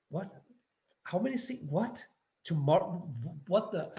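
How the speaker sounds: as if the request just landed on you; incredulous surprise. Retold or imitated. Actor retelling a late audition request, mock incredulous.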